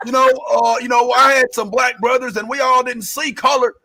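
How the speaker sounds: mock defensive protest; lightly voiced self-justifying man. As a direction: plead innocence as that guy, lightly put on. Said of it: "he's used the terms".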